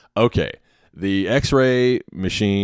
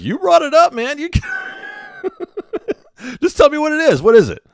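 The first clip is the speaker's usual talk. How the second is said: exasperated shout; 4 dB louder than usual. Retold or imitated. Tech demanding the answer.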